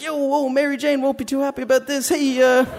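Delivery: high-pitched Spider-Man act under attack; hammed-up Spider-Man. Spider-Man being kicked by children, hammed-up and high. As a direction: keep the hero voice going while beaten.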